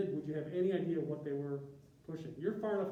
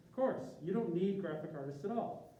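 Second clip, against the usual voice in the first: sarcastic; 3 semitones higher than usual. Acted. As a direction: sell the sarcasm, eyebrows up. Sarcastic dismissal of designers' value.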